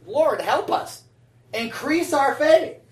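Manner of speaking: a hint of a pleading disciple, drawn out slowly. Preacher voicing the disciples asking Jesus, mildly pleading. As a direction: slowly plead "Increase our faith" like a disciple. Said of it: "the disciples asked a valid question".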